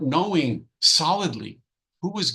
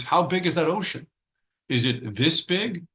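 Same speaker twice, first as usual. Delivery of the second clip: higher, fast, lightly voiced frog; proud little frog; 5 semitones higher than usual. Preacher voicing the frog in the well, lightly higher and fast. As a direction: puff up as a boastful little frog.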